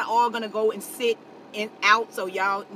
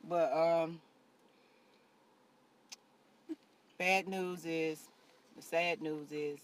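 mock sadness; 5 semitones lower, 8 dB quieter than usual. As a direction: stretch the pause before bad news. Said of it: "that was an act".

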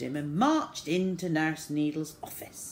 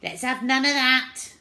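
raised, high no-nonsense scolding; stern nurse; 8 semitones higher, 7 dB louder than usual. A narrator's reading. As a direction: cut the fuss short, loudly. Nurse cuts short a crying child.

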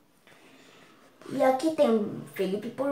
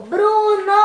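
acted shout, higher and louder; Felipe's yell; 5 semitones higher, 5 dB louder than usual. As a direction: call the name out in a drawn-out yell. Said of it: "o Felipe gritou".

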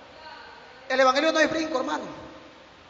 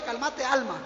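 soothing; 3 semitones lower, 8 dB quieter than usual. Shown as a demonstration. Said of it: "Dígale conmigo en esta noche".

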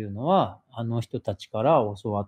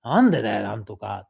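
scary version. Retold or imitated. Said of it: "って言うと怖いんだけど".

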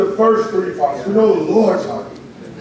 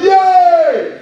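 high, long crowd yell; mock roar of celebration, pitched way up; imitated crowd cheer; 9 semitones higher, 4 dB louder than usual. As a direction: cheer like a whole stand of fans. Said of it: "their side of the stands were going".

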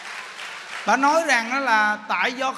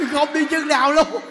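laughing punchline; 3 semitones higher, 4 dB louder than usual. Real, not acted.

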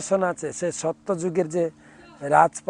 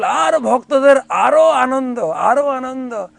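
rising joy; 7 semitones higher, 5 dB louder than usual. A narrator's reading.

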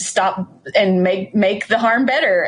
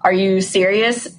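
deadpan disbelief; slower than usual. Retold or imitated. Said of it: "deadpan, idiot face and be like".

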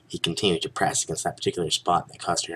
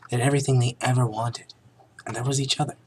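hammy stage actor; 6 semitones higher, faster than usual. A narrator's reading. Melodramatic narration.

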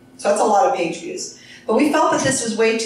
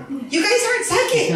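laughing; 13 semitones higher than usual. Real, not acted. Teasing the audience, laughing.

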